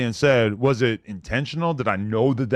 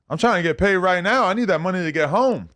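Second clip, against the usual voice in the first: higher-pitched, pressing retold demand; insistent demand; 5 semitones higher than usual. Storyteller quoting a man demanding his money now, insistent. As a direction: imitate someone pushing to be paid.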